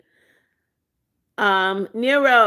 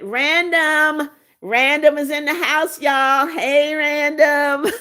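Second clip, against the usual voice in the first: higher, brighter welcome, stretching Hey, Random; excited greeting; 4 semitones higher, slower than usual. Real, not acted. Welcoming viewer Random into the live chat, excited. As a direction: hail a friend who just arrived.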